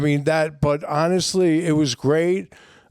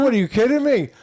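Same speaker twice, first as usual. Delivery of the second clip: giddy excited retort; 8 semitones higher, faster than usual. Retold or imitated. Patient in the ICU answering his wife, giddy and high. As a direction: bounce it up like you're floating on Demerol.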